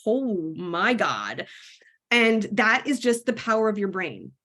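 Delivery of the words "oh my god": slow, stunned oh my God; a slow, amazed gasp of words; stunned awe. Retold or imitated. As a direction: let it sink in slowly. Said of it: "And I was like".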